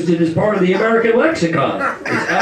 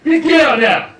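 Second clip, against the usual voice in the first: louder, higher mock yelling with a laugh; 6 semitones higher, 4 dB louder than usual. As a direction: throw her out, half laughing. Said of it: "I'm like".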